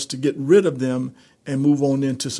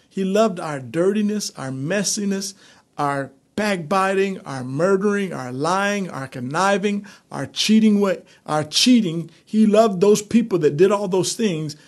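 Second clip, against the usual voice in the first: building fervor; 5 semitones higher than usual. Real, not acted. Preacher stirring the congregation, rising fervor. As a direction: pile up the sins, swelling with feeling.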